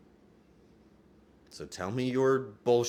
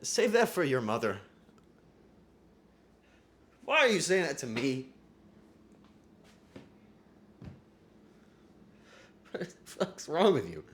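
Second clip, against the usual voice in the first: mock outrage; 7 semitones higher than usual. Mock angry reply to compliment.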